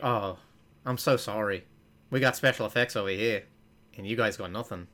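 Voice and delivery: light mock New Zealand accent; attempted New Zealand accent. New Zealanders pitying an American, lightly attempted New Zealand accent. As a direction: imitate apologetic New Zealanders, accent only half there. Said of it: "see, that was almost".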